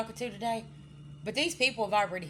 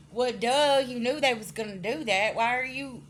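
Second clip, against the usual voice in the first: loud, higher, mocking exasperation; exasperated well duh; 4 semitones higher, 6 dB louder than usual. Querent mocking the friend who got betrayed, loud exasperated scoff. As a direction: bark it out like it's obvious.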